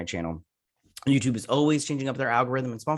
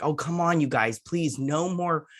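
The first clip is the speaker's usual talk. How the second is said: mock pleading; 6 semitones higher, slower than usual. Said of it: "And I was like".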